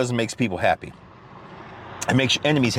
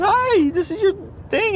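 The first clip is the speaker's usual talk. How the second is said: much higher sweet hi; imitating cashier. Imitating the smiling cashier at the window, high sweet hi. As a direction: play the sugary cashier. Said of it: "She goes".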